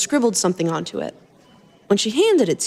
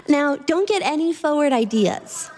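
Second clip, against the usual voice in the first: warning; 6 semitones higher than usual. A narrator's reading. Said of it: "she added warningly".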